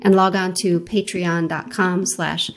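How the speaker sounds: measured, scripted host read over music; podcast intro read. Acted. Host introduces a guest to podcast listeners, scripted intro read. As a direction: introduce the guest with deliberate phrasing.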